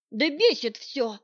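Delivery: slow, huffy complaint; bare irritation, leaning on бесит; irritated snort. Acted. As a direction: huff it out, fed up. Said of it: "фыркнула я".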